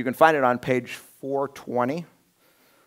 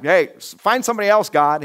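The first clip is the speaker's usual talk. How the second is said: much higher, louder reluctant plea; protesting; 7 semitones higher, 8 dB louder than usual. Retold or imitated. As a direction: push the job away in alarm. Moses refusing his calling.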